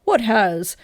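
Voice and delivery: hushed whisper; whispered question. A narrator's reading. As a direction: whisper it, worried. Husband answers in alarm.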